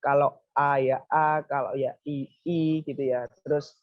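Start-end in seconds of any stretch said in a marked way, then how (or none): 0.5-0.8 drawn-out, carefully articulated "A"; careful articulation. Shown as a demonstration. Teacher shows students the correct letter sound, careful articulation of "A". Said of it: "melafalkan huruf-hurufnya dengan makhorijul huruf yang benar". 2.0-2.8 clearly held "I" vowel; careful articulation. Shown as a demonstration. Teacher shows students the correct letter sound, careful articulation of "I". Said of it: "melafalkan huruf-hurufnya dengan makhorijul huruf yang benar".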